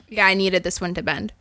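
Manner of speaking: talking between sips of wine; words around a sip of wine; sipping wine. Real, not acted. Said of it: "Sorry, I'm sipping my wine".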